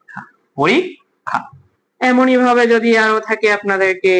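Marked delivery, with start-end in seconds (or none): 0.6-1.4 পরীক্ষা slowly, as "po-rik... kha"; syllable-by-syllable pronunciation. Shown as a demonstration. Teacher sounds out the exam word, পরীক্ষা in slow pieces. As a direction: split পরীক্ষা with a gap before "kha". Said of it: "পরীক্ষার উচ্চারণটা কি হবে".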